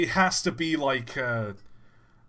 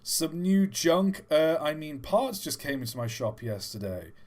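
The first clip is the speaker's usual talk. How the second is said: shopkeeper voice; 4 semitones higher, 5 dB louder than usual. Acted. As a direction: read the letter as a chirpy shopkeeper. Reading shopkeeper letter in voice.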